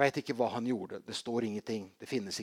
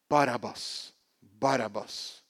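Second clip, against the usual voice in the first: crowd shout; 5 dB louder, slower than usual. Retold or imitated. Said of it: "hører han bare et stort rop".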